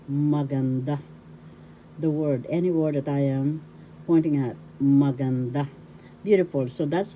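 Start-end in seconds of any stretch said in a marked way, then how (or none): 0.1-1.0 "maganda" said maganDA; stress on third syllable. Shown as a demonstration. Teacher showing learners the pronunciation, "maganda" accented on "da". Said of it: "that's how you will pronounce". 4.8-5.7 "maganda" with the accent on DA; stress on third syllable. Shown as a demonstration. Teacher pointing at the word, "maganda" stressed on "da". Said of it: "Third syllable has the accent".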